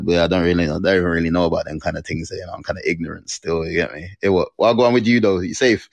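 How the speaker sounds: put-on Jamaican street talk; laid-back London-Jamaican street accent; ghetto Jamaican accent. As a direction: play it casual in Jamaican patois. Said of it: "be really ghetto and Jamaican about it".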